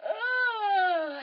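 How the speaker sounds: high, sliding stretch noise; long falling oh; stretching groan. Acted. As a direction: groan while stretching all the way down. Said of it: "and all the way down".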